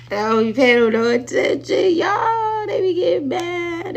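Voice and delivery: laughing high and loud through the words; real laughter breaking through a high shout. Real, not acted. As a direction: cackle it out at the haters. Laughing off the haters.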